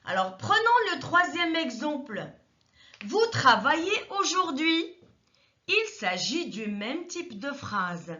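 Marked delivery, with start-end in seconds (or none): 3.1-4.9 "Vous travaillez aujourd'hui" with the voice rising at the end; rising question. Shown as a demonstration. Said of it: "intonation montante". (intonation montante sur « aujourd'hui »)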